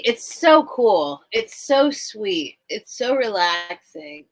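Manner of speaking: slow, drawn-out so; admiring. Real, not acted. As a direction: savor each word, slowly. Praising Roy's videos.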